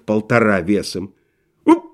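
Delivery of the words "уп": brief choked "oop"; short thin yelp. A narrator's reading. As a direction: let out a short startled yelp. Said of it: "крикнул тонкий голос". (короткий тонкий вскрик)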